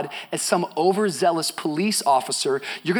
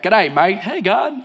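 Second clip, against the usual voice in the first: playful mock Australian accent; 3 dB louder, slower than usual. Preacher imagining God in heaven, jokey Australian accent. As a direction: greet lightly in a put-on Australian accent. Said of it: "Australian accent or an English accent".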